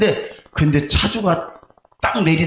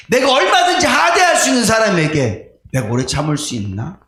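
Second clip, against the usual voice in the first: raised pleading question; 3 semitones higher than usual. Retold or imitated. Pastor questioning himself before God, raised.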